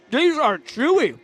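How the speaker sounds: breathy whisper with the mouth full. Real, not acted. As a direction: whisper it while chewing. Whispered aside while eating.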